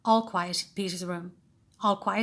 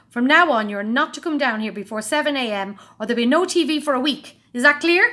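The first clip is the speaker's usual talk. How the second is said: stern; 5 semitones higher, 8 dB louder than usual. A narrator's reading. Dad laying down rule.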